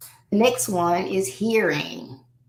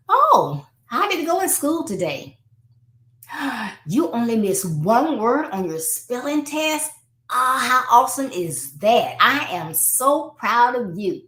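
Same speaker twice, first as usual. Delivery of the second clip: high, delighted praise; encouraging; 5 semitones higher than usual. Acted. Parent praising a child's spelling test, encouraging. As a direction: gush with pride over the child's result. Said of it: "you wanna encourage them".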